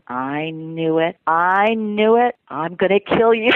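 slow, drawn-out retold threat, building; mock outraged accusation. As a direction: act out catching someone red-handed, word by word. Director's threat on grabbing her hat.

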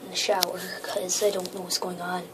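hushed, hiding from a monster; being chased. Pretend. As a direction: whisper like you're hiding. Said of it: "being chased".

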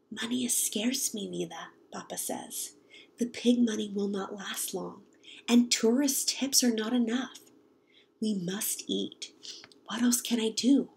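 soft, worried hush of a father at night; worried whisper. Acted. Father whispering money worries to mother, hushed. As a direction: whisper it so the children won't hear. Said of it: "Papa and Mama start whispering".

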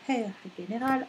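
Herr General in a German accent; German-accented title. Shown as a demonstration. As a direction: pronounce it the German way. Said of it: "à l'allemande, s'il vous plaît".

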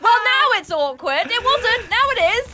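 retold exasperation. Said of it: "I was like".

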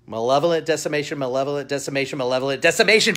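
Malevolent Decimation rattled off fast and loud; tongue twister. Shown as a demonstration. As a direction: push through Malevolent Decimation as a challenge. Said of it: "the worst time saying that, uh, title".

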